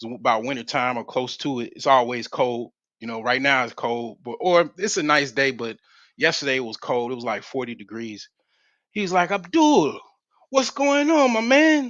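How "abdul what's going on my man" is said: put-on very high, raised, drawn-out New Jersey Italian accent. Retelling how a man greeted him, in a New Jersey Italian accent. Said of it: "he had that Italian accent".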